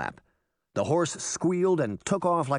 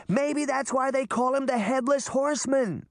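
sarcastic shout; 13 semitones higher than usual. A narrator's reading. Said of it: "Sabrina shouted".

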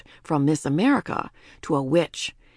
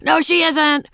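put-on high, loud child's protest; defiant cry; 9 semitones higher, 7 dB louder than usual. A narrator's reading. Ramona resisting the witch, loud defiant cry. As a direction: cry out in refusal. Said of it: "cried Ramona".

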